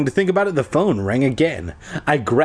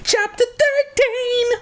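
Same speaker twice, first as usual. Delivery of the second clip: much higher, slow, theatrical chapter call; grand announcement. Pretend. The reader hamming up the chapter title for listeners. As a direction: proclaim it like a showman. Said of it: "announcing the chapter".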